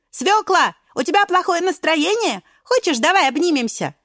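lightly voiced friend offering a hug; caring friend voice. Friends comfort sad beet. (заботливый голос подружки)

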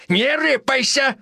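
high, slow threatening snap; sharp warning. Acted. Old villain warning the major off, high threat. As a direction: bark it at him, high.

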